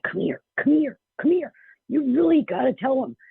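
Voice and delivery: high, loud insistent calling; the mother summons the medium across the steakhouse, high and loud; demanding mother. Retold or imitated. A pushy mother calling someone over, high and loud. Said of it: "very demanding woman".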